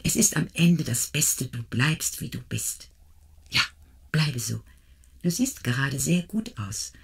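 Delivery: tender motherly confidence; confiding. Acted. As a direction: draw her close and speak gently. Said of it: "sagte, beinahe vertraulich".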